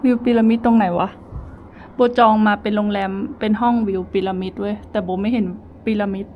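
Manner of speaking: loud puzzled complaint. Real, not acted. Can't find the promised pyramid view.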